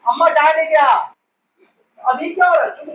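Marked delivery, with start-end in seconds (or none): 0.1-0.9 higher-pitched mock call to mother; mildly raised calling voice; imitated loud call. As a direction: call out as if over machine noise. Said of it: "तो अब वो जोर से बोल रहे हो".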